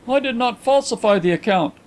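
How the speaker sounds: high-pitched, heated denial; hot denial. A narrator's reading. Visitor denies the accusation to his friend, heated. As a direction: protest indignantly. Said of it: "cried Carlyle hotly".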